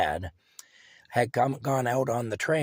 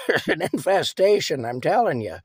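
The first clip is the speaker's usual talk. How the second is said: insistent shout; 6 semitones higher, 6 dB louder than usual. Retold or imitated. Wife insisting to husband.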